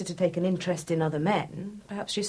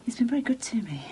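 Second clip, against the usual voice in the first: whispered; faster than usual. Acted. Quiet fond confession.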